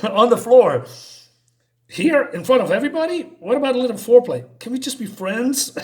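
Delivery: high, loud flustered protest; high-pitched panicky backpedalling; panicked squeak. Retold or imitated. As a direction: squeal it out like a cornered man, fast. Humiliated guy panics at proposition.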